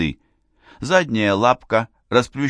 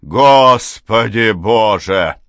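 slow, much louder, falling on господи; loud cry; 2 semitones higher, 8 dB louder, much slower than usual. A narrator's reading. Father crying out at the news, loud slow wail. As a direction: cry out to heaven. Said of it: "ещё громче вскричал отец".

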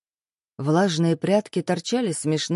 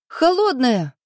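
squeal; 5 semitones higher, 3 dB louder, slower than usual. Acted. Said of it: "взвизгнула Лерка".

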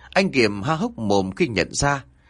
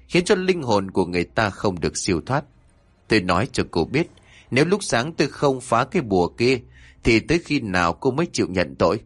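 stern scolding. Acted. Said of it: "gằn giọng mắng".

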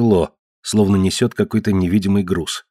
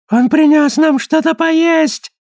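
slow, high, louder crone shriek; high wailing old woman; 5 dB louder, slower than usual. Acted. Old mother to the family, a high wailing crone. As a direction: wail hungrily like a starved crone.

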